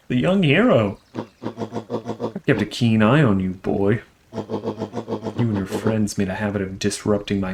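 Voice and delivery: villain voice. Acted.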